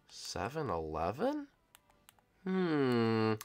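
slow, soft, thoughtful question; hushed musing. Acted. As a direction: wonder it softly to yourself. Musing while others sleep.

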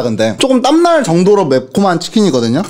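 eating while talking; muffled by hand and food; hand over mouth. Real, not acted. Seen 1: Gloved hand holds food at mouth from 1.0; chewing through.

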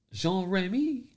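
Jean Remy said high with a French zh. Shown as a demonstration. Streamer checking his French name with chat. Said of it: "Like that? Was that good?".

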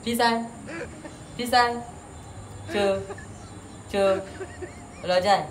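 "Pisai" "Cho" "Lojai" said one at a time with pauses; teacher drilling "Pisai", "Cho", "Lojai"; syllable by syllable. Shown as a demonstration. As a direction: break "Pisai Sholojai" into separate syllables. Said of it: "It's pronounced as Pisai Sholojai".

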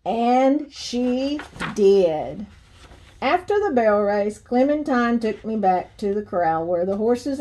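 lively storybook reading with swinging pitch; story read to children. Acted. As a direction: read a picture book aloud to kids. Reads children's book aloud.

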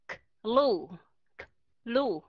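"k-, lu" with a bare k cut off before "lu"; split consonant cluster. Shown as a demonstration. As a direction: break "k-, lu" apart, a pause between k and lu. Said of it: "đừng có nghĩ rằng mình có thể đọc là". (đọc tách "k-, lu", âm k rời khỏi lu)

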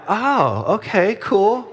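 high-pitched mock delight; impressed. Impressed reaction to hearing Texan.

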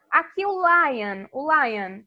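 slow, "lion" stretched; slow word model. Shown as a demonstration. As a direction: show the word slowly. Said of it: "eu sei mais ou menos imitar". ("lion" devagar)

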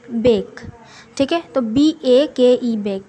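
slow, spelled out as बी ए के ई, then बेक; teacher spelling a word for a class; spelling out demo. Shown as a demonstration. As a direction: break बेक into letters, then say it whole. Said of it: "इसको pronounce करते हैं जैसे कि बेक".

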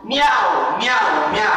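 sing-song cat meows; playful cat meowing. Shown as a demonstration. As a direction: meow meow like a cat. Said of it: "decimos como gato".

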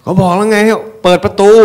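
very high, loud acted shout; angry yell. Resident yelling at village security over the gate, acted angry shout. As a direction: bellow an impatient order at the guard. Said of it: "อย่าตะคอกใส่เขาสิครับผม".

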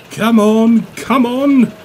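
loud, high urging shout. A narrator's reading. Kings urging Derek as he pulls, shouting. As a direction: cheer him on at full voice. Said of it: "King shouted".

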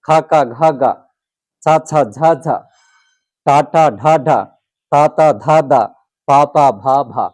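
quick pairs such as খা, কা, ঘা, গা, each with a long a; syllable drill. Shown as a demonstration. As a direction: chant the pairs ছা, ছা, ঝা, ঝা in rhythm. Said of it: "তাহলে কিভাবে পড়তে হবে?". (ছন্দে জোড়ায় জোড়ায় আ-কার যোগে পড়া)

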